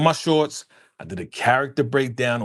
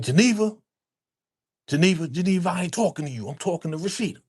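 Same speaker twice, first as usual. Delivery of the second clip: mock angry rant; 6 semitones higher, faster than usual. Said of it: "That man was going off".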